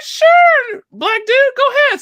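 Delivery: very high, loud mimicked voice; over-the-top high-pitched imitation; interpreter's eager consent. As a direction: squeal a delighted go-ahead. Voicing interpreter granting photo request.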